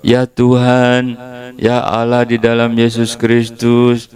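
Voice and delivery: high, slow, fervent prayer opening; lightly hammed-up praying; mock prayer. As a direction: call on God earnestly.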